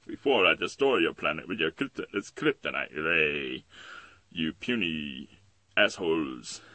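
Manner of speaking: loud, drawn-out supervillain menace; villain threat. Acted. Villain threatening to destroy the planet, loud and grandiose. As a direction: threaten grandly, stretching the insult.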